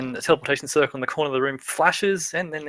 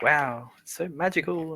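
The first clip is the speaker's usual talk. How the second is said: slow, hushed-in-wonder exclamation; amazed; 3 semitones higher, 4 dB quieter than usual. Acted. Aya marvels at the magical bag, amazed. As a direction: draw it out in mild amazement. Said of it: "looks in amazement".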